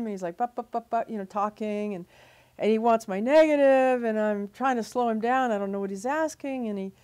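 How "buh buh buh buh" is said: mock rapid babble, higher pitched; staccato nonsense patter, mimicking someone; imitating unintelligible chatter. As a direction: imitate a breathless caller's incomprehensible sputter. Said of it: "You can't understand him".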